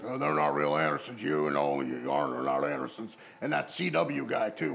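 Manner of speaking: mock fuming put-down; retold angry rant; imitating angry old wrestler. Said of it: "he just cursed up a storm".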